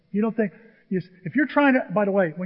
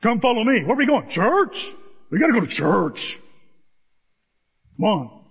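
mock church invite; 2 semitones higher than usual. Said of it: "imagined church-going call".

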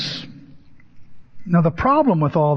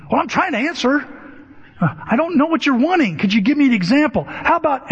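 higher-pitched, hurried pleading imitation; frustrated Dave; 8 semitones higher, faster than usual. Dave begs the therapist for an example, imitated frustration. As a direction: plead for help, high and rushed.

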